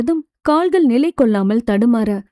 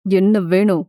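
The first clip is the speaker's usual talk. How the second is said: weary; 4 semitones lower than usual. Acted. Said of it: "சலிப்புடன்".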